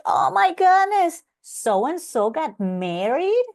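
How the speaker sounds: high, loud mock outrage at a social media post; shocked gasp. Herself scrolling, shocked at a wedding she missed, high mock outrage. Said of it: "So I was like".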